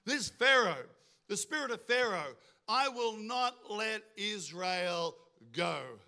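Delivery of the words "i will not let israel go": very slow, deliberate refusal; a ruler's slow, weighty no; defiant refusal. Acted. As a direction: space out each word immovably. Preacher voices defiant Pharaoh.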